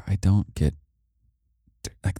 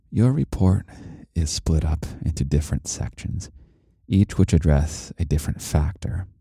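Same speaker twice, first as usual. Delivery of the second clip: audiobook voice. Acted. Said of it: "audiobook me voice".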